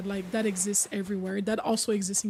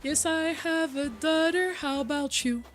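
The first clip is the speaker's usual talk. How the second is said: trend voice; 4 semitones higher than usual. Retold or imitated. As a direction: play the silly interviewer lightly. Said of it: "have ever seen that trend".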